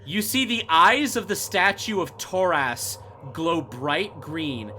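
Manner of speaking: ordinary talk, nothing marked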